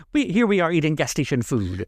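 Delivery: a hint of a put-upon diva; Giselle's put-out cadence. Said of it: "Giselle always tries to have that cadence".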